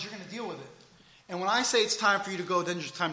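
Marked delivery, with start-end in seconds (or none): 0.0-0.7 much softer firm warning; quiet stern God. Acted. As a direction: settle it, softly firm. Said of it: "God says".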